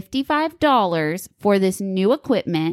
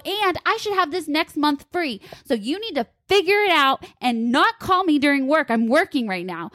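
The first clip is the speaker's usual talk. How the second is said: high-pitched indignant retelling, a bit heated; retold angry complaint; 6 semitones higher than usual. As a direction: replay the angry call, pitched up. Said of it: "I was so angry".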